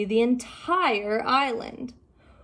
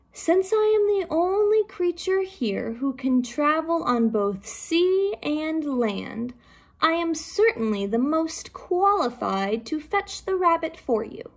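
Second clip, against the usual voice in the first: put-on gravelly old turtle, a little higher; 6 semitones higher than usual. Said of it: "in a gravelly voice".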